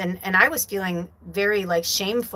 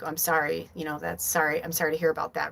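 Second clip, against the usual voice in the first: regretful sorry; 3 semitones lower, 5 dB quieter than usual. Retold or imitated. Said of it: "a regretful".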